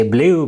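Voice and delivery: "blue" with a y-glide, like "blyoo"; learner's slip, "blue" as "blyoo"; mispronounced blue. Shown as a demonstration. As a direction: say "blue" wrongly as "blee-oo". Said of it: "We mispronounce this. We say".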